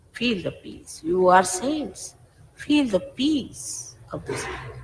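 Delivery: soft, slow invitation to peace; gentle urging. Real, not acted. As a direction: ease them softly into stillness. Urging listeners to feel the peace.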